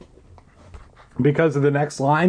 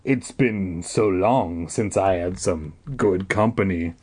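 put-on friendly old man voice; 8 semitones lower than usual. A narrator's reading. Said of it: "in a friendly voice".

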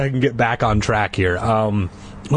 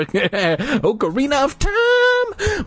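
jokey aside; 13 semitones higher, much slower than usual. Pretend. Joke aside.

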